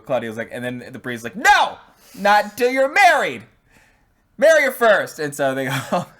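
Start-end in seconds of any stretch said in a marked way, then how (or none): 1.4-5.2 high loud frantic yell; shouting priest. Retold or imitated. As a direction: yell it out, panicking.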